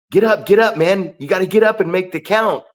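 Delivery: retold urgent prodding; urgent urging. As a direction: urge a downed man to his feet. Retold urging of downed referee.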